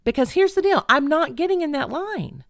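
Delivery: high-pitched, determined resolve; retold resilience. Woman in the van resolves to see it through, resilient. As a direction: voice a stubborn inner pep talk. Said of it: "the resilient part of me was like".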